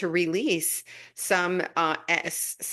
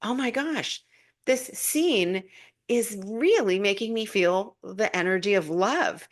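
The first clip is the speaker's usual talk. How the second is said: delighted realization; 3 semitones higher than usual. Retold or imitated. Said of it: "I'm like".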